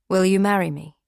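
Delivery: lightly voiced nervous man proposing; fiancé's proposal. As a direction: ask it breathless with hope. Proposing on one knee at dawn.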